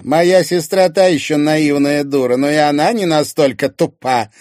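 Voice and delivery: high, loud contemptuous woman; scornful Irina. Acted. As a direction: deride your sister with confidence. Irina scorns her sister.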